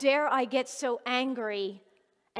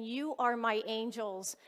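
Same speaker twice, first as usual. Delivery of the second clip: tearful; 4 dB quieter than usual. Retold or imitated. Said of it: "I was at the verge of tears".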